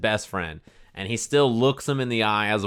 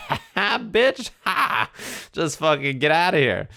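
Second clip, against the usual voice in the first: much higher cackling taunt; gloating villain; 7 semitones higher than usual. Pretend. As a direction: sneer it out like a smug villain. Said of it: "I would've been like".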